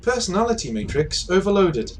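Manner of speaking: high-pitched computer announcement voice; device system message. Acted. Device reporting its overloaded personality matrix, system message. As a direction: announce it like an automated error message. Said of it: "And it, it says".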